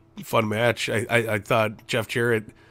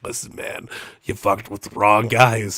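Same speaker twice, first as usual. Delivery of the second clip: put-on evil Boston accent; 2 semitones lower than usual. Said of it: "evil with a Boston accent".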